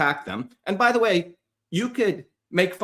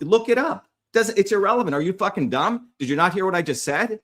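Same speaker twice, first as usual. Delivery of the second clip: higher, impatient scolding; exasperated scolding; 5 semitones higher than usual. Real, not acted. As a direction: talk down to them, fed up. Scolding followers who disagree.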